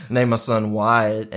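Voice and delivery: slow, laughing repeat. Real, not acted. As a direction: say it through laughter. Repeats announcement while laughing.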